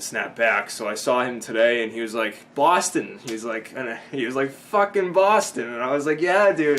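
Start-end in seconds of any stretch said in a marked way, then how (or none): 2.5-3.2 higher-pitched imitation of a hailing call; retold hearty greeting. 4.5-5.7 high, loud, drawn-out imitated hail; retold rowdy greeting. Retold greeting, now bigger. 6.2-6.8 higher, louder answer, re-enacted; retold eager reply. Retold enthusiastic reply to greeting.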